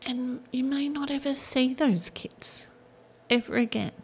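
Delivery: words catching as she fights tears; close to tears. Real, not acted. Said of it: "Now I'm gonna cry".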